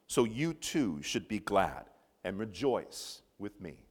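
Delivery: measured, emphatic Bible reading; scripture reading. Acted. Preacher reading Paul's letter to the congregation, scripture reading. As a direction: read the verses out with deliberate phrasing.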